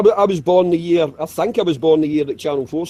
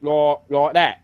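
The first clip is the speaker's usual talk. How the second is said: London accent; 5 semitones lower, slower than usual. Shown as a demonstration. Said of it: "Now, London's like this".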